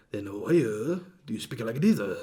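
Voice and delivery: exaggerated Asian accent with swooping pitch; mock Asian accent. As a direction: imitate a heavy Asian accent. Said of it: "speaking with his natural Asian accent".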